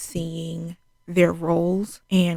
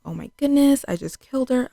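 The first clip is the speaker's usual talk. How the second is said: high-pitched retold panic; lightly acted high-voiced alarm; mock freak-out; 7 semitones higher, 3 dB louder than usual. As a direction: imitate someone panicking, pitched up. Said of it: "Love immediately starts freaking out".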